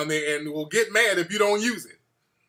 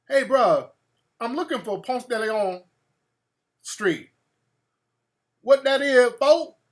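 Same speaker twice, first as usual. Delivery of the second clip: Atlanta local; 3 semitones higher, slower than usual. Retold or imitated. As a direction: call out like a local dude. Locals answering in Atlanta slang.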